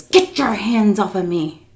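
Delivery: slow, strained mock outrage; retold angry snap. Miss C to the woman grabbing her arms, indignant. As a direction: push each word out indignantly. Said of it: "She went like that to me".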